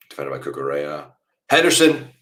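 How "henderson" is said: sudden high excited yell; goal shout. Real, not acted. Fan on stream yelling as the goal lands, excited. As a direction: scream his name as the ball goes in.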